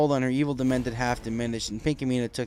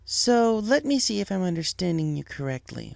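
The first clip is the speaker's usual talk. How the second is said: higher mother voice, pointed and doubtful; Firefly, skeptical; 7 semitones higher than usual. Acted. Wife questioning her husband, skeptical. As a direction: question him like a disbelieving wife.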